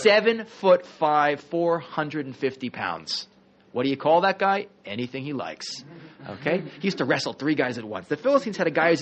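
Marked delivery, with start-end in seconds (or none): 0.0-3.3 high, loud, slow amazement at his size; retold awe. Teacher recalling seeing Andre the Giant, retold awe. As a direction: marvel at each slow figure.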